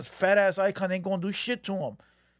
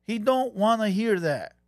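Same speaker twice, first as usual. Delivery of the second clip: slow and deliberate. Shown as a demonstration.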